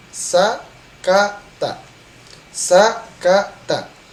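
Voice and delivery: sakata stretched very slowly; slow demonstration of sakata; slow drawn sakata. Shown as a demonstration. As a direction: draw out sakata syllable by syllable. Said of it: "Disingkat menjadi".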